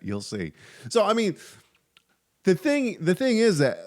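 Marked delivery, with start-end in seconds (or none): 0.0-0.5 ominous you'll see. Retold or imitated. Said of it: "He kept saying that".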